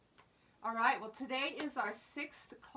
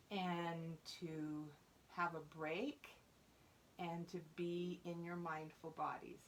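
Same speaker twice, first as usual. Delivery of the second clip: lower, unhurried calming voice; calm mindfulness leading; 3 semitones lower, 4 dB quieter than usual. Real, not acted. Teacher readying fourth graders for the bell, calm. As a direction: ease the class gently towards stillness. Settles the class into mindful practice.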